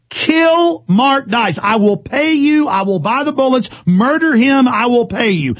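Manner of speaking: sneering parody of the radio host; mock imitation. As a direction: ham up the threat with contempt. Imitating the host's on-air threat.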